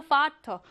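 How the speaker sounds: 파터 opening on an f sound. Shown as a demonstration. Teacher repeats the German word example, 파터 with an f. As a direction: pronounce the first sound of 파터 as f. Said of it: "파우는 프로 발음하죠".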